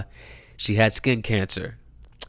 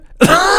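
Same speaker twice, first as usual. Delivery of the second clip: sudden high laugh of disbelief; high burst of laughter; 7 dB louder than usual. Real, not acted. Son reacting to mom's cancer news, high laugh. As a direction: let out a shocked, high laugh.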